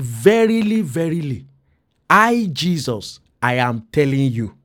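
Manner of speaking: solemn emphasis on "Verily, verily, I, Jesus"; emphatic quote. Retold or imitated. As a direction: quote it weightily, lifting "Verily" and stretching "I, Jesus". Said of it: "to stress for us".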